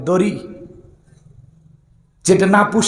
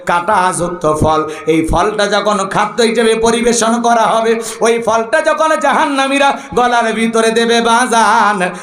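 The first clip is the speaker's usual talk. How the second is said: melodic preaching; 3 semitones higher than usual. Acted. Preacher telling of the hungry in hell, melodic preaching. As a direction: chant the warning, rising on cries.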